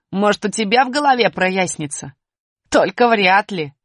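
чуть громче и насмешливо; усатый дразнит букву З; дразнящий усатый. Acted. (насмешливый голос усатого)

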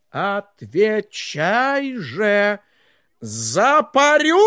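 slow menace. Acted. Tsar threatens Ivan.

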